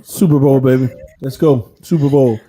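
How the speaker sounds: loud hype, cheering for the team; excited cheer. Real, not acted. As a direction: shout it like a fan in the stands. Hyping team's playoff chances.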